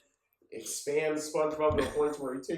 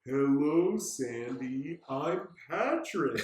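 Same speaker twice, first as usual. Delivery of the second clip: slow, talking down like she's dumb; lightly voiced Patrick, patronizing; condescending Patrick; 2 semitones higher, much slower than usual. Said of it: "Patrick talking down to Sandy".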